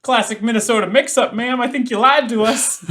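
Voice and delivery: hammy country lawman; player's character confronting the woman, laughing; folksy Minnesotan. Acted.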